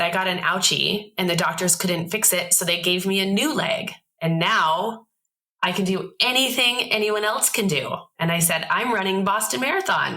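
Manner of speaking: put-on sing-song reassurance for a child; talking to a small child. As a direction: explain it sweetly to a little girl. Explaining her leg to child.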